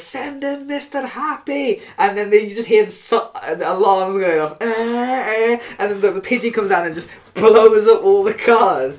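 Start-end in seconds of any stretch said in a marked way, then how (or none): 0.0-1.8 acted-out yell, much higher, slower. Retelling a movie scene where a character yells up at the pigeon, retelling a yell upward. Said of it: "he yells upwards at the pigeon".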